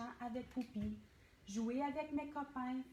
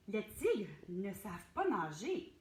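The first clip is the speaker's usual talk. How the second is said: 1 called out; 3 semitones lower, 4 dB louder than usual. Acted. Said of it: "lui cria Clovy".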